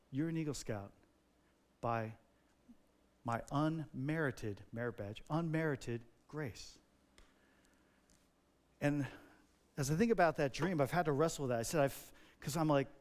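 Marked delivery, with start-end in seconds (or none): 0.1-6.8 slow, soft and gentle; grace-filled. Retold or imitated. Jesus gently declares him an Eagle Scout, slow. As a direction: hand it over like a gift. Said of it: "in his grace-filled way".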